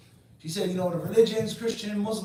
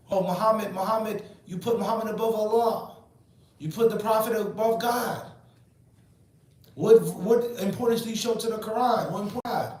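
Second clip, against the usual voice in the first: mocking opponents; 5 semitones higher, 3 dB louder than usual. Mocking hadith rejectors' accusations.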